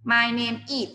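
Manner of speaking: My name is split so is sounds like eat; mocked wrong form. Shown as a demonstration. Teacher joking about a confusing phrase, mock wrong. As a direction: stress the stray is. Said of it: "ชื่อของฉันกิน".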